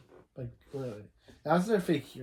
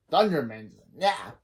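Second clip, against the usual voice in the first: mock the rallying call with a sleepy twist; lazy parody. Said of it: "and Balfour says".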